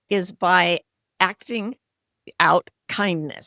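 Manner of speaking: ordinary talk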